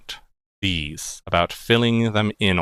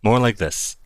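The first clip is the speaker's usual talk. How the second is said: a little lower and smoother; lower Traveler voice. Shown as a demonstration. GM showing how the Traveler sounds, lower. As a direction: drop the pitch into a smooth low character voice. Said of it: "little lower pitch".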